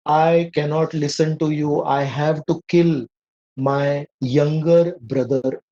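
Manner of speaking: imitating an arrogant son, slow and weighty; arrogant retort. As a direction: play the haughty son refusing his mother, drawing out each word. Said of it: "speaking like this arrogantly to his own mother".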